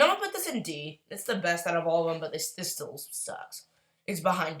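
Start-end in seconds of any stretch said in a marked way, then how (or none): 2.2-3.6 whispered. Real, not acted.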